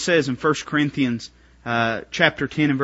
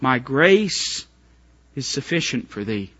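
divine voice; 2 semitones lower, slower than usual. Acted. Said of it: "the divine voice".

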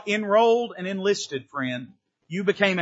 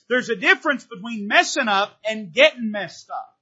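louder repeat; 5 semitones higher, 5 dB louder than usual. Shown as a demonstration. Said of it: "I'm gonna say that again".

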